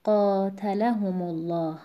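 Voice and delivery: قاتلهم الله with the stress of قاتلهم as if م had sukun, slow; slow recitation demo. Shown as a demonstration.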